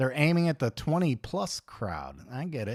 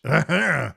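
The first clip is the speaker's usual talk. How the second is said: mock French throat noise; 2 semitones higher than usual. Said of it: "What is the deal with the French".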